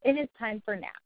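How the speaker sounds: firm, falling, no question; assertive command. Shown as a demonstration. Caregiver telling a child nap time, firm and kind. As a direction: state it with no doubt. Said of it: "an assertive command".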